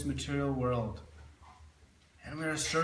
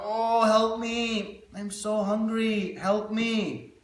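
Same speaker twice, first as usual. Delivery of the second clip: slow, higher pleading cry from a starving man; a hungry beggar crying out slowly for help at a temple; 5 semitones higher, slower than usual. Acted. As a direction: beg for help, drawing out each word. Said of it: "he is crying out".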